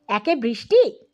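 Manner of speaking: ordinary delivery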